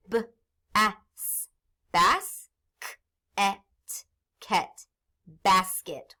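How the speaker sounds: drawn-out blend of ket into basket; slow blending. Shown as a demonstration. Teacher blending syllables for class, slowly. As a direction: stretch it for young readers. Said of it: "Let's sound it out".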